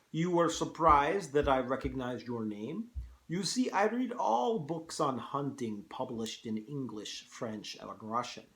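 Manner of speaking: put-on Russian-accented general addressing his guest; cultured host with a wobbly Russian accent; General Zaroff. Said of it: "hard to do a Russian accent".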